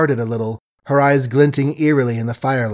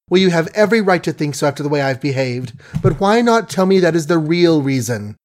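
heated accusation; 7 semitones higher than usual. Acted. Margaret accuses Billy heatedly.

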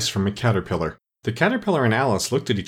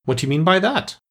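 stern; 7 semitones higher than usual. A narrator's reading. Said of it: "said the caterpillar sternly".

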